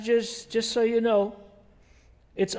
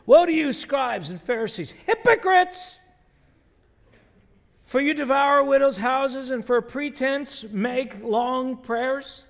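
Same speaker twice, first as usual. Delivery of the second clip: forceful scripture reading; 2 semitones higher, 3 dB louder, slower than usual. Acted. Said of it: "I'm just gonna skip through a few verses".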